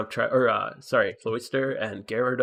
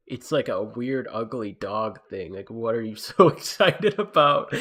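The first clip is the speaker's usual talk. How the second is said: imitating baffled wife; 4 dB louder, slower than usual. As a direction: drag it out, then lift into a puzzled question. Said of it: "And she's like".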